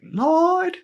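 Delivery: high, loud fervent pleading to the Lord; wife praying with fire, high and loud; fired-up prayer. Retold or imitated.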